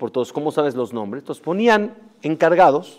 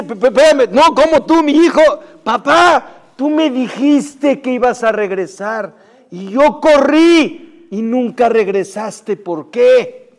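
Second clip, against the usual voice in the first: conmovido; 8 semitones higher, 7 dB louder, slower than usual. Retold or imitated. Hijo reencuentra al padre.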